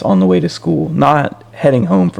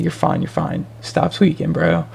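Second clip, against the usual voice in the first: softer, lightly voiced reassurance; retold calming; 4 semitones higher, 6 dB quieter than usual. Friend calming someone freaking out on the bus, retold soothingly. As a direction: imitate a buddy talking someone down, quietly. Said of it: "he's trying to calm me down".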